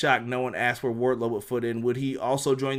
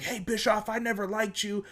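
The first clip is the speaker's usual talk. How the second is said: mock Jericho; 8 semitones higher, 3 dB quieter than usual. Jericho going off at Bischoff.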